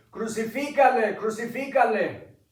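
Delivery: crowd shout. Acted. Preacher voicing the mob before Pilate, high loud shout. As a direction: chant it like an angry mob.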